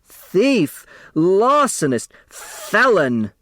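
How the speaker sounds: high accusing cry; secretary crying thief at Mrs Wexler; cried out. A narrator's reading. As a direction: fling the accusation at her. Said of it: "Sidel cried".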